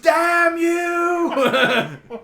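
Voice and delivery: loud, high, sing-song cry of outrage; high yelled outburst; outraged shout. Real, not acted. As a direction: howl it at the table in mock fury. Player reacts to portal explosion.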